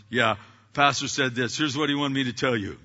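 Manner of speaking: mock irritated staffer relaying the message; ticked off. Staff member grudgingly passing on pastor's words, mildly ticked off. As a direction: sound a little put out while passing it on. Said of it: "they sound ticked off".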